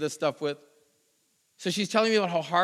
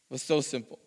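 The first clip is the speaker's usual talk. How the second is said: quiet, lower repeat of so simple; soft echo; 5 semitones lower, 6 dB quieter than usual. Acted. Preacher quietly echoing his point to the congregation, soft. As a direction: let it drop to a hush.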